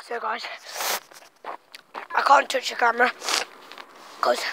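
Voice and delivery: talking through a mouthful of marshmallows; mouth full. Real, not acted. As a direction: speak with a stuffed mouth. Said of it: "my mouth is covered in marshmallows".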